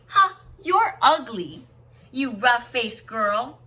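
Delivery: loud, slow, sneering jeer; mock her like a cruel older sister; mocking taunt. Cruel older sisters taunting the youngest girl, loud slow jeer. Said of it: "those two older sisters laughed at her, saying".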